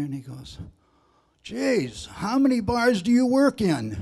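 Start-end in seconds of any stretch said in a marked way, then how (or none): 1.4-4.0 higher, laughing through the line; laughing punchline. Retold or imitated. Drunk asks the bartender, laughing at the punchline. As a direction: crack up as you ask.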